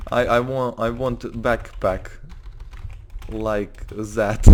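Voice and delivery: slow broken English, put-on Russian accent; halting mock Russian English; fake Russian accent. Anton asking for a backpack, fake Russian accent. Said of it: "I'm trying to fake a Russian accent".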